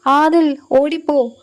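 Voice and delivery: understated mock scream to run away; mild narrated scream. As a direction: read her warning cry with a little urgency, understated. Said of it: "Noora ഉറക്കെ നിലവിളിച്ചു".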